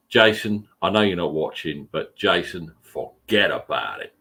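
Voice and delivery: hammed-up New York-Jersey accent. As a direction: lay on a thick Jersey accent. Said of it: "You love my New Jersey accent".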